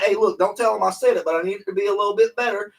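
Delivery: high, loud hushed-deal impression; secretive rich client. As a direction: play a rich guy sharing a secret.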